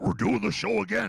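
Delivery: high, rough, raspy puppet-dog voice. Reading a quoted line from an article aloud, in Rolf the dog voice. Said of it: "I didn't know I could do that voice that well".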